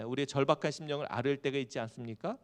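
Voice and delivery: usual speaking voice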